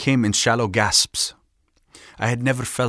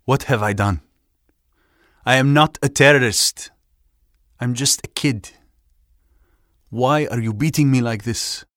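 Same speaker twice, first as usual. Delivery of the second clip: anguished cries; 2 semitones higher, 5 dB louder than usual. A narrator's reading. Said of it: "A torrent of questions and cries".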